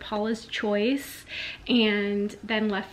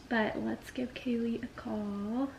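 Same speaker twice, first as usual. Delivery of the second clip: whispered; 12 dB quieter than usual. Real, not acted. Conspiratorial aside before calling.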